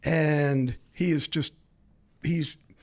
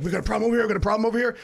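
raised, higher call of alarm; 6 semitones higher, 3 dB louder, much faster than usual. Retold or imitated. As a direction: warn the room loudly. Retold fighter calling out.

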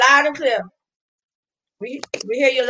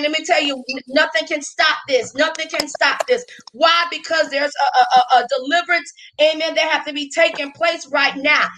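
preaching at full force; 2 semitones higher than usual. Real, not acted.

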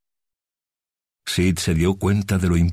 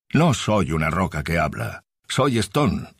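annoyed talking rock. Acted. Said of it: "puntualizó, visiblemente molesta".

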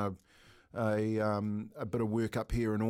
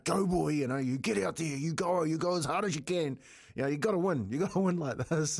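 lightly voiced fired-up father; mild mock pep talk; imitating dad's urging; 3 semitones higher than usual. Father working brother up at the start line, imitated urging. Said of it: "the old man's into him".

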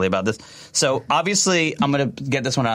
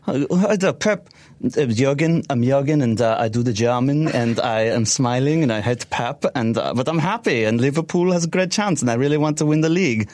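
smiley German. Retold or imitated. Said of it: "smiley German voice".

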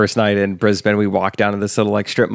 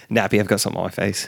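quick, softer mock-Australian line; Australian accent; 2 semitones lower, 5 dB quieter, faster than usual. Shown as a demonstration. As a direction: rattle it off as a pretend Australian. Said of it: "How is your Australian accent?".

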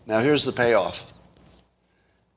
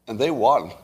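incredulous; 11 semitones higher than usual. Real, not acted. Incredulous ironic aside.

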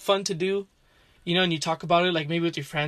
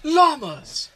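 hype shout; 10 semitones higher, 5 dB louder than usual. Real, not acted. Hyping up podcast topics.

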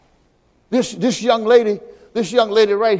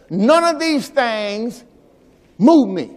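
slow, weighty quote; much slower than usual. Retold or imitated. Quoting Paul, slowed for weight.

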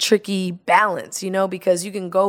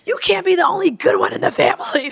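high, mock-scolding jab; teasing jab; 10 semitones higher than usual. To laid-back husband at the game, high teasing reproach. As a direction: needle him about being the only good one. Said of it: "I was like".

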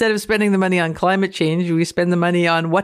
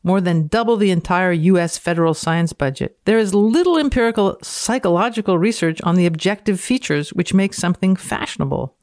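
dramatic reading. Acted.

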